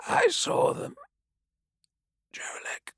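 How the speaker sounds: whispering. Acted. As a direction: whisper it with dying wonder. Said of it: "Saw Talgron whispered".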